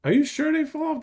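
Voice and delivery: high, startled disbelief; surprised disbelief. Real, not acted. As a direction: caught off guard, then let down. Told leech falls off.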